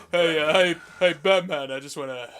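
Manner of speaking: lightly put-on action-star voice, halting delivery; Sylvester Stallone. Host playing Robin calling to Batman, sounding like Stallone. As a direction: stumble through it like a movie tough guy. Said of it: "That's what you sounded like just then".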